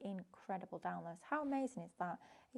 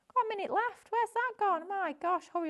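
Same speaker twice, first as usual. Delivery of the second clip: surprised; 12 semitones higher, 9 dB louder than usual. Real, not acted. Realises the hour is nearly over.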